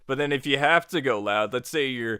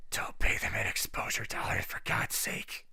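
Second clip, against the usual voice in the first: whispered aside; 5 semitones lower, 8 dB quieter than usual. Real, not acted. Aside warning to fellow creators.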